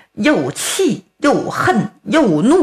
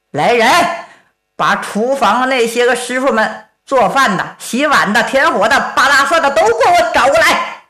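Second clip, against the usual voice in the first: a marshal barking for the cooks; commanding order; 4 semitones higher than usual. Acted. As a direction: summon them like an angry marshal. Ruan Ying orders the kitchen staff brought.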